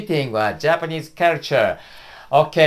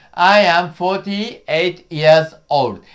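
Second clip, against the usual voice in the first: slow model answer. Shown as a demonstration. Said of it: "please try it".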